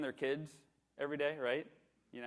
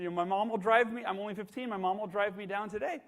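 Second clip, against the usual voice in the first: higher, louder, eager; eager teen; 7 semitones higher, 6 dB louder than usual. Retold or imitated. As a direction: rush to say yes. Eager teen answers manager.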